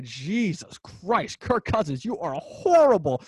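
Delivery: drawn-out, emphatic put-down; exasperated scolding. Real, not acted. Host berates an absent quarterback, exasperated scolding. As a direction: stretch the words out in exasperation.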